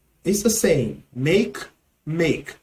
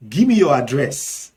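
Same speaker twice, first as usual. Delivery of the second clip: Nigerian Pidgin. Shown as a demonstration. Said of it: "in Nigerian Pidgin English".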